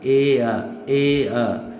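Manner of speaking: ए, अ as a glide with no r; British ए-अ, final r silent. Shown as a demonstration. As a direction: say "air" as ए then अ. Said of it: "इस पे ये एक sound ख़त्म हो रहा है".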